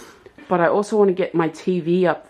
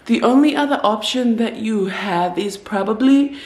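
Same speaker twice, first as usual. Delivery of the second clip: put-on Filipino accent. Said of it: "I don't know what accent I'm doing, but he was from Philippines".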